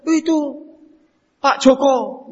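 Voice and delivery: put-on slow, high little boy's complaint; crying child. Small boy telling his father he was hurt, tearful. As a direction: whimper it like a hurt small kid.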